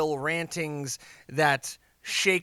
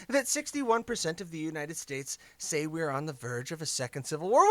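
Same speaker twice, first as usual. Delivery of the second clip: squeaky imagined fan; mock listener voice; 4 semitones higher than usual. Voicing listener's question.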